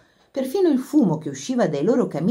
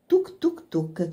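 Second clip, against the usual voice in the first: clucking hen; 2 semitones higher, 5 dB quieter, much slower than usual. A narrator's reading. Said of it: "chiocciava la cuoca come una gallina in agitazione".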